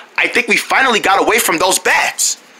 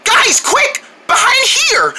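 high, urgent hurrying voice; urgent call; 13 semitones higher, slower than usual. Acted. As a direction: hurry your friends into hiding. Hurrying friends to hide.

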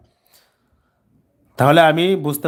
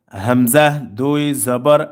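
spelling drill. Shown as a demonstration. Teacher spelling out tanween for learners, measured drill recitation. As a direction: sound out each letter name, then ring the syllable.

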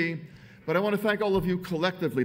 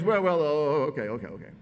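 Howard Dean; 4 dB louder than usual. Retold or imitated. Politician caught out by the speaker's look, mock-flustered backpedalling. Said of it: "And he goes".

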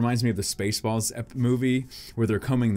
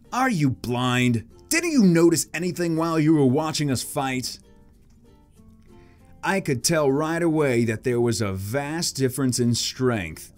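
rival, voice broken; 4 semitones higher, 3 dB louder, slower than usual. Acted. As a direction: scold slowly, as a grown-up rival. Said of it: "I guess he's gone through puberty".

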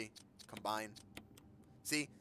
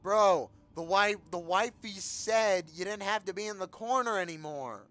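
slow, higher, louder goofy buddy voice; mock bro comfort; 7 semitones higher, 7 dB louder than usual. Gamer pretending to console the zombie, slow and higher. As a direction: talk it out of the corner like a pal.

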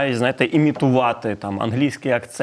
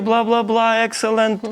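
much higher, gushing American voice; imitating cheery Americans; 8 semitones higher, slower than usual. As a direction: play a chirpy American handing out compliments. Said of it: "вони тобі тисячі компліментів скажуть". (вище, грайливо, як захоплений американець)

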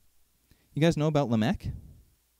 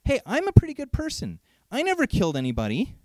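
mock pleased-with-myself boast, starting high; playing a self-satisfied churchgoer; smug self-praise; 5 semitones higher than usual. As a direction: imitate a smug good person, bright on hey. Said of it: "People say this".

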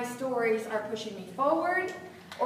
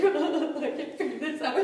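laughing through tears. Retold or imitated.

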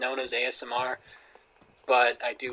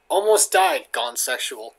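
louder hype on the first words; mock clickbait title; 3 semitones lower, 3 dB louder, slower than usual. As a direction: parody a sensational video title.

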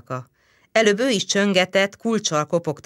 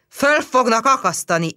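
higher, louder howl; mild yell; 6 semitones higher, 4 dB louder than usual. A narrator's reading. Policeman howling the sentence at the girl, higher. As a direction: yell the verdict. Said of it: "üvöltötte szinte magán kívül".

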